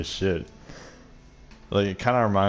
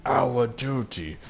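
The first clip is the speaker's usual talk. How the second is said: lightly voiced snooty father quoting duty; mocking pompous father; 2 semitones higher, slower than usual. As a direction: drone it out like a smug elder. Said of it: "he's just like".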